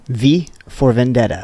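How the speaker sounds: slow, deliberate repeat. Shown as a demonstration. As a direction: spell it out slowly. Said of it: "you gotta slow down there".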